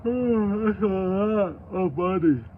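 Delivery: awed. Real, not acted. Awed by the reward money.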